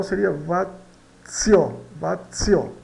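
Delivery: "vazio" lento e claro; pronúncia geral. Shown as a demonstration. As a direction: diga "seria vazio" devagar. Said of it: "de um modo geral". ("vazio" pronunciado devagar)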